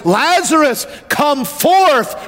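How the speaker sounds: high, ringing call; preacher's high drawn-out cry; crying with a loud voice. Acted. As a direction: call it out like a command from the pulpit. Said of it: "cried with a loud voice".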